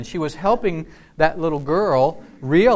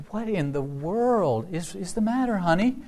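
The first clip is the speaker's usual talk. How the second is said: concerned mother; 6 semitones higher, 4 dB quieter than usual. Retold or imitated. Mom asks a crying first grader what's wrong, tender concern. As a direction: gently draw out the question, voice lilting up.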